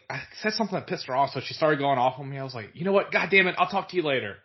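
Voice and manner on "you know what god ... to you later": higher, louder, fed-up outburst. Retold or imitated. Grandson hangs up on his nagging grandma, fed up. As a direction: snap and hang up on her.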